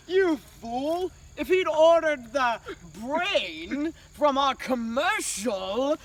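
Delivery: a hint of a gloating villain. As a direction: sneer it, lightly.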